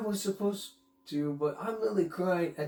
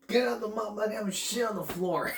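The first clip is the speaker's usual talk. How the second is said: mock shout; faster than usual.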